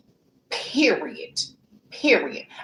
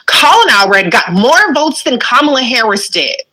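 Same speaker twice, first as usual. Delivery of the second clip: louder, pressing every fact; heated rant; 7 dB louder than usual. Real, not acted. Ranting at critics over the Texas Senate race, loud. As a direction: hammer each number home, fed up.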